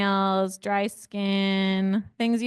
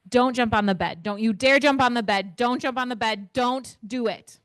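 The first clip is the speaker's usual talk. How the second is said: louder, rising stern don'ts; stern warnings; 3 semitones higher, 5 dB louder than usual. Shown as a demonstration. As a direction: hammer home the don'ts like a parent. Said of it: "Visualize what I'm saying".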